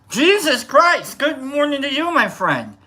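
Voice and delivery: startled, high, slow Jesus Christ; surprised outburst. Real, not acted. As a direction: blurt it out in surprise.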